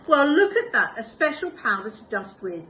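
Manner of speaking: bursts out loud and high, then settles; delighted discovery of the powder; exclaiming. Acted. Amelia Bedelia exclaiming at the dusting powder box.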